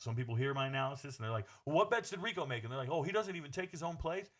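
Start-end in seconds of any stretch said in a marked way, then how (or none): 1.6-2.6 high-pitched mock questioning; mocking critic. Mocks critics of his analysis. 2.9-4.3 high-pitched mock complaint; mocking critic. Mocks critics of his analysis.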